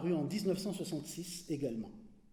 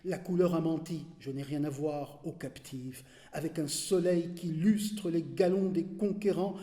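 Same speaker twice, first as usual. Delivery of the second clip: measured declamation, sinking at the close; poem recitation. Acted. Reader reciting a poem of the besieged city, measured declamation. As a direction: carry long phrases steadily, then let them fade.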